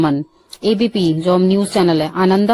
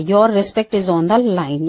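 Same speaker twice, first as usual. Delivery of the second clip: slow dictation; much slower than usual. Shown as a demonstration. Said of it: "ये इसको ये बोलते हैं".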